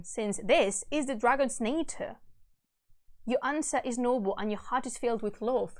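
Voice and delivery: measured, solemn storytelling; stately reading of a verse tale; epic story narration. A narrator's reading. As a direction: read the old epic aloud with gravity. Reads epic aloud.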